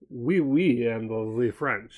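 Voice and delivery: lightly put-on French accent. Shown as a demonstration. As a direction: slip playfully into a French accent. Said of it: "I do a very good French accent".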